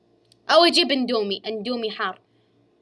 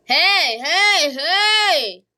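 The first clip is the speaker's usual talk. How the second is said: high panicked calls; panicked cries; 6 semitones higher, 5 dB louder, much slower than usual. Real, not acted. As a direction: cry out in panic. Panic in game.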